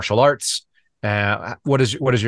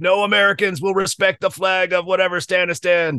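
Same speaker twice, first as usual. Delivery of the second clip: play-acted, high-pitched screaming outburst; 9 semitones higher than usual. Retelling a man running onto the field screaming at airmen, imitating someone screaming. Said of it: "he screams something like".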